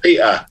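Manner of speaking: "Peter" with the T swallowed in the throat; glottal stop. Shown as a demonstration. Author demonstrating Cockney to the host, glottal stop in "Peter". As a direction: replace the T of "Peter" with a catch in the throat. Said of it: "That's with the glottal stop".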